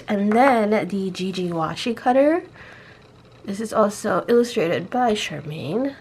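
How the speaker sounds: rusty unused morning voice. Real, not acted. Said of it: "Sorry, my morning voice".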